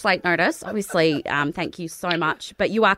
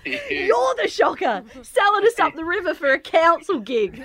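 laughing teasing; 9 semitones higher than usual. Real, not acted. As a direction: tease him while laughing. Mock accusing the prank victim.

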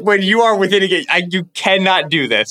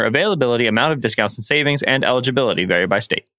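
ad read. Acted. Host reading a State Farm spot, smooth ad read.

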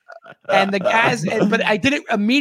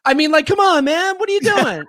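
mock outrage; 9 semitones higher, 3 dB louder than usual. Mock road rage continues.

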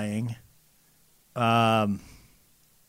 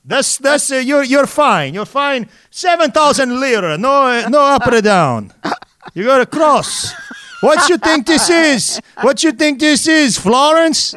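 higher-pitched mock Italian accent, scolding; 8 semitones higher than usual. Venetian blind seller scolds a customer in a hammed-up, higher Italian accent. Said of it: "I'm laughing so hard at your accent".

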